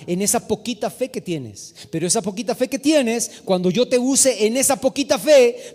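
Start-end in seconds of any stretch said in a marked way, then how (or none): 1.9-5.8 building, insistent pulpit promise; fervent, raised-voice exhortation; rousing preaching. Real, not acted. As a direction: drive each promise home to the congregation. Preaches at full force.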